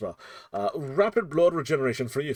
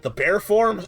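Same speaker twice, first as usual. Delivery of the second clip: hectic voice; 5 dB louder than usual. Pretend. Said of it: "let me get back into hectic voice here".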